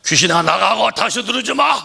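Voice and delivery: loud commanding rebuke; stern rebuke. Acted. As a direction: cast it out with authority. Jesus rebukes the spirit. (귀신을 꾸짖는 예수의 호령)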